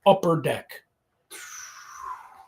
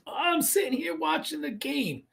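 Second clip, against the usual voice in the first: put-on old Italian dad; 11 semitones higher, 6 dB quieter than usual. Dad voiced in the retold show.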